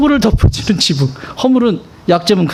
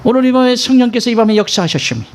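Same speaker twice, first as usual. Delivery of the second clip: higher-pitched mimicry of a revival preacher; short-tongued pulpit voice, pitched up; short-tongued pastor; 4 semitones higher, faster than usual. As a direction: imitate a lisping pastor proclaiming. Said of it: "이게 혀 짧으셔서 그런데요".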